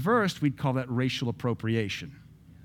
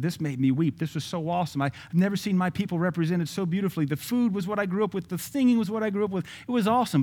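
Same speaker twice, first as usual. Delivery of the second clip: higher-pitched retold gushing praise; gushing reviewer; 5 semitones higher, faster than usual. Preacher reading out Latin reviews of the movie, mock gushing. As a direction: imitate thrilled reviewers, pitch lifting as it goes.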